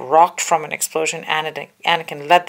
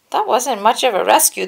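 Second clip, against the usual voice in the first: higher, louder sneering cyborg; cyborg general mocking; 7 semitones higher, 6 dB louder than usual. A narrator's reading. Grievous mocks the captured Jedi, loud sneer. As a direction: gloat over the captives. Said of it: "the cyborg general said".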